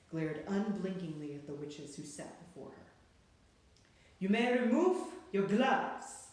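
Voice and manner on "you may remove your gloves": slow, high, loud harsh witch command; witch shouting. A narrator's reading. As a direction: rasp out the order to the whole room. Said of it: "she shouted".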